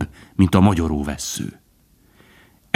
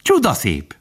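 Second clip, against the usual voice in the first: higher, delighted squirrel; admiring cry; 6 semitones higher than usual. A narrator's reading. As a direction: exclaim in mild rapture. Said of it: "kiáltotta mókus". (elragadtatott, magasabb felkiáltás)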